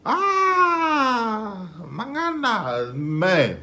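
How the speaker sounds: loud, high, stretched-out cries of delight; hyped up reaction. Real, not acted. Reacting to the rap verse, loud and high excitement. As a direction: blown away by the track, let it rip.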